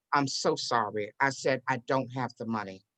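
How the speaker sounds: low, subdued retold apology; understated, downcast confession; sorry admission. Retold ashamed admission at closing.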